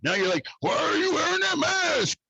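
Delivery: hammed-up fed-up outburst; exasperated rant. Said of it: "And I'm like".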